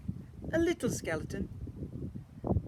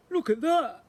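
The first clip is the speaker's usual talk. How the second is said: higher, louder exclamation; surprised skeleton; 12 semitones higher, 8 dB louder than usual. A narrator's reading. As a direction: gasp it out in surprise.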